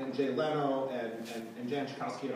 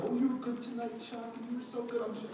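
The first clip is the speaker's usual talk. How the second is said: mock fawning praise; 9 semitones higher than usual. Mocking people coddling Chuck.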